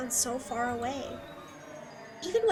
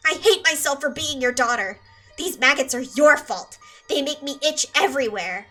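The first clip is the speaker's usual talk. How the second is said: bitter rage; 5 dB louder than usual. Acted. Raging at mother, maggots.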